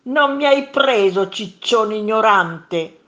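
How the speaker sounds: loud high jeer, stretched insult; shouted taunt. A narrator's reading. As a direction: yell a taunt across the mountain. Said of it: "gridò il primo mostro". (grido di scherno)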